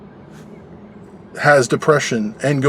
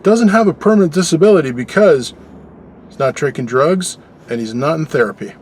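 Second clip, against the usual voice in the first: retold indignant question. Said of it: "I said to him".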